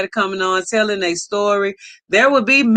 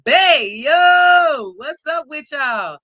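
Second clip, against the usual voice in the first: hyped greeting; 4 semitones higher, slower than usual. Real, not acted. Greeting a returning guest loudly.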